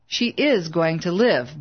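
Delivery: slow, firm stress on "is" in "she is going to live"; insisting. A narrator's reading. Bill insists to his neighbor, slow and firm on "is". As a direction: lean on "is", slowly and firmly. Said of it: "Bill insisted".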